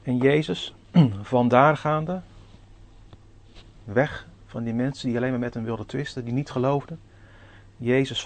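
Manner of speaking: formal pulpit reading voice; scripture reading. Acted. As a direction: read the Scripture out to the congregation with weight. Reads Bible passage aloud.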